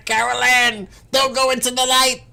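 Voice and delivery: very high, loud eerie warning call; creepy movie medium. Retold or imitated. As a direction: warn the lost girl like a creepy medium. Spooky movie-medium impression.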